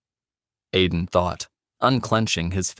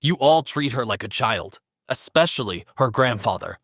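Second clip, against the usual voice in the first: sneering; 3 semitones higher than usual. Acted. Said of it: "Sandra sneered".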